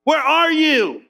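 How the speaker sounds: casual call to God. Retold or imitated. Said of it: "you said this".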